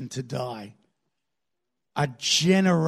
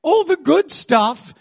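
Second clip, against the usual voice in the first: high, drawn-out indignant cry; hammed-up outraged wail to heaven; yelling at God; 9 semitones higher, 3 dB louder, slower than usual. Israelites finding the good stuff gone, yelling at God. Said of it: "then they yell at God".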